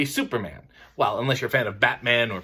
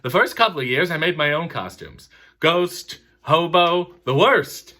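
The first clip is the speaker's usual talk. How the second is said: a hint of Seinfeld's observational style; Jerry Seinfeld bit; 3 semitones higher than usual. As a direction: deliver it like a stand-up opener. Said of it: "See, that's him".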